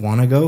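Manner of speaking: "wanna go" run together as one word; connected speech. Shown as a demonstration. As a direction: link "wanna go" smoothly. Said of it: "sounds like one word".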